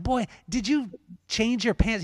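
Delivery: a hint of an old-school dad scolding his boy; father calling his son "Boy", half-stern. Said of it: "that's how my dad talked to me".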